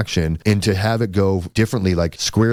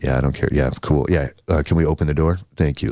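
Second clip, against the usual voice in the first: lightly voiced manager, pitched lower; laid-back manager; 4 semitones lower than usual. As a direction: imitate an unbothered guy, a little lower. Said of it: "and the guy's like".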